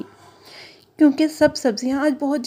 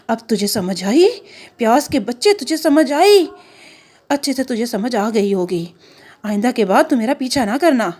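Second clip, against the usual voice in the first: mild threatening caterpillar. Acted. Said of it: "सूंडी ने कहा".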